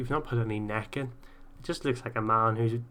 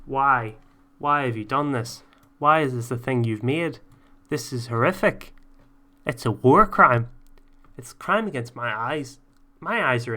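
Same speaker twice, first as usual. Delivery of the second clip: loud exaggerated disgust; mock outrage; 8 dB louder than usual. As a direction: yell at the awful logo.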